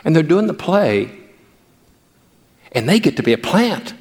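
ordinary talk, nothing marked

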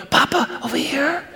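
put-on child calling grandpa quietly from the hiding spot; hushed child's call. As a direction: whisper from a hiding place like a little kid. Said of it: "little boy or little girl's voice just giggling".

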